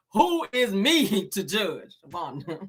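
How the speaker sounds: slow, drawn-out mock imitation; Wanda. Host imitating Wanda to her face, slow teasing mimicry. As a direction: drag the words out, teasing, a laugh breaking in. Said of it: "before I be talking like her ass".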